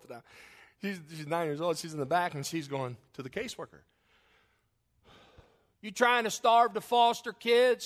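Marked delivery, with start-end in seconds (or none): 5.8-7.8 high, loud, slow mock yell; yelling child. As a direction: shout it like a cheeky kid from the back seat. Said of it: "She yells this from the back seat".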